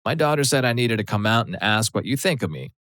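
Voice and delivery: a hint of a Southern mom's accent; thick Southern accent. Mom confronting daughter's boyfriend in a light Southern accent. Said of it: "with an extremely thick, high-pitched Southern accent".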